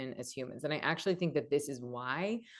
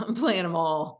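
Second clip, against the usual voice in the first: loud, laughing through the words; laughing boast; 3 semitones higher, 8 dB louder than usual. Real, not acted. The speaker joking about her full emotional range, laughing loudly. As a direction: brag playfully while cracking up.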